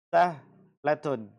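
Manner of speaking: sahlatun stretched very slowly; drawn out. Shown as a demonstration. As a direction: let sahlatun hang long and clear. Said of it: "teacher drawing out the word". (sahlatun diucapkan sangat pelan)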